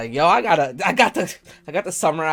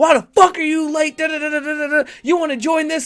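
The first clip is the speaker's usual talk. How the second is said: play-acted, very high, shrill drill-sergeant yelling; 12 semitones higher, 4 dB louder than usual. Imagining a drill sergeant yelling at a late recruit: imitating a drill sergeant yelling. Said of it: "that nigga yelling at me like".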